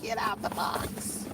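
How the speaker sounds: slow, breathless whisper to herself. Real, not acted. Muttering to herself while unpacking, a slow whisper. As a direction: whisper it slowly as if just for you.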